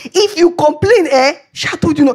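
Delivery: high, laughing I-told-you-so; mocking inner voice. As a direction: tease herself with laughter. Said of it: "I heard".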